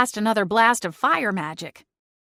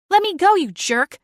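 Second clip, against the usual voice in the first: high, angry snarl; 8 semitones higher, 4 dB louder than usual. Acted. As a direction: spit it out furiously. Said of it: "she snarled".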